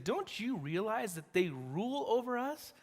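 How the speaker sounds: high, pleading question; mock pleading. Men of Judah pleading with Samson, high-pitched. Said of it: "you can just hear it".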